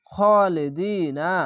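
very slow intoned খালিদিনা with a rising end; slow melodic tajweed reading; Quran recitation. Shown as a demonstration. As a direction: chant খালিদিনা slowly, heavy খ, no aa sound. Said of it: "খাড়া জবর এক আলিফ টেনে পড়বেন".

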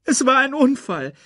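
high cub's wail; lamenting. A narrator's reading. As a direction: plead it through grief. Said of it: "klagte Simba". (klagender Welpe, hoch)

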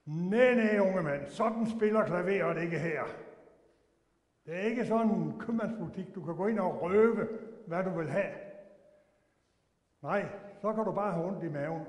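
loud stern scolding; loud, indignant rebuke; retold angry rebuke. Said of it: "Så blev jeg så rasende".

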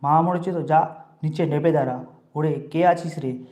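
put-on loud, harsh scolding of the boy. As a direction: bark at him to get downstairs. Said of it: "ধমক দিয়া বললেন". (রাগে চড়া গলায় ধমক)

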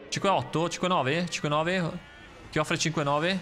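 auctioneer. Pretend. Bidding as at an auction.

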